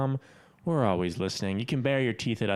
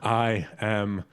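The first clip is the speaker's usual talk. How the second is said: Thanos impression; 4 semitones lower, slower than usual. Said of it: "That was a great line".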